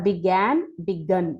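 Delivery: "బిగాన్" with open a, then "బిగన్" with short uh; clear vowel contrast. Shown as a demonstration. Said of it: "clarity తెచ్చుకోవాల్సి ఉంటుంది".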